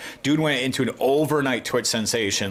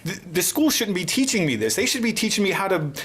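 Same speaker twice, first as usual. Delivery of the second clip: mock whiny kid rant; 7 semitones higher than usual. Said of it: "he's just like".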